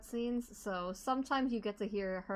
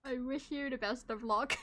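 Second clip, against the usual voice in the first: put-on laughing British accent. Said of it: "entertained by the British accent".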